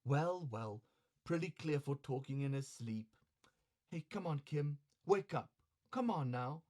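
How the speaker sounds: quiet, coaxing courtesan; soft woman's voice. Acted. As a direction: coax him to get up. Osame coaxing Kinzo.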